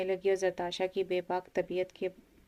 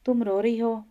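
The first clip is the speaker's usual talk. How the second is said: louder, startled question; he notices her tears, louder with surprise; surprised; 3 semitones higher, 7 dB louder than usual. A narrator's reading. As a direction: catch her crying and be taken aback. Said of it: "वो हैरान होकर बोला".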